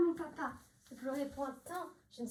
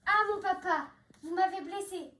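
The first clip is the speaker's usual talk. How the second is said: mock pained cry; 4 semitones higher, 4 dB louder than usual. Daughter pretends to be whipped.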